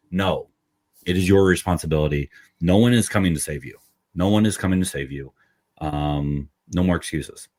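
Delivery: fast, driving push; fired up. Real, not acted. Host urging listeners to drop excuses, fired up. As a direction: hammer it home like a coach. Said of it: "A little fired up here".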